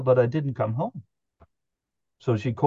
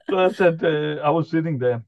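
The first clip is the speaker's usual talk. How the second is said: ordinary delivery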